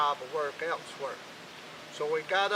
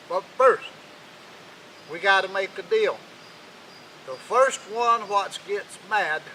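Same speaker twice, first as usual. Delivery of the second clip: put-on stern old king; 3 semitones higher, 5 dB louder than usual. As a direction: lay down the deal like a hard bargainer. King lays out the deal.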